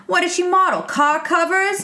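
lightly imitating Sophia's deadpan insult; mock Sophia. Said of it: "she goes".

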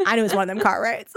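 quick, light Southern twang; Southern accent. Shown as a demonstration. Showing friend why the joke needs Southern, quick accented demo. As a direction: toss off the punchline in a Southern accent. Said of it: "say it in a Southern accent".

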